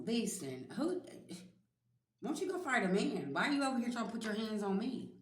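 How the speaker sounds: sassy confrontation; scolding an abuser. Acted. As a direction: tell him off, high and fed up.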